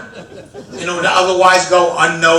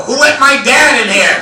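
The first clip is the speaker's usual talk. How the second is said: startled cry; 7 semitones higher, 7 dB louder than usual. Retold or imitated. Startled by mirror reflection.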